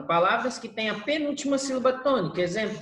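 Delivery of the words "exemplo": usual speaking voice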